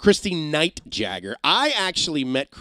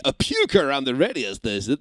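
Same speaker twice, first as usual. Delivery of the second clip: put-on Russian accent. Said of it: "he had this accent that I'm gonna butcher".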